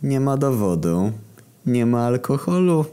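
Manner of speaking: slow, gleeful teasing rhyme; broadly smiling. A narrator's reading. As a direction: refuse with a smug wide smile. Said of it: "uśmiechnąłem się do niego szeroko".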